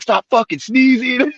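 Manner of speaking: high-pitched, slow exasperated order; imitated mad cop. Cop fed up with Tim beside him, imitated anger. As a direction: mimic a cop at the end of his rope. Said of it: "He was getting mad".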